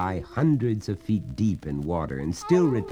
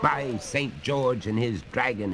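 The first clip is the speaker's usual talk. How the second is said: exclaiming; 3 semitones higher than usual. Acted. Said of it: "ejaculated the master of Harrowby".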